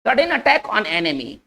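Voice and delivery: very slow, word by word for writing down; slow dictation. Shown as a demonstration. Teacher dictating the meaning to students, very slow. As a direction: dictate it slowly so they can copy. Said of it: "इसको अगर हम तोड़ के लिखेंगे".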